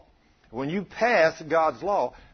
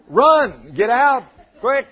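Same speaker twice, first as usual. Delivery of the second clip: loud, high comic shout to flee; panicked shout; 10 semitones higher, 12 dB louder, much slower than usual. Pretend. Preacher joking what a deacon should do, shouting in mock panic. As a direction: yell it like you're bolting for the door.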